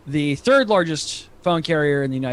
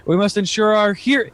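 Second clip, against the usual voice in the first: higher-pitched, declaimed reading of a tweet; 5 semitones higher than usual. Acted. Podcaster reading the president's tweet to co-host, declaimed. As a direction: read it out like an official proclamation.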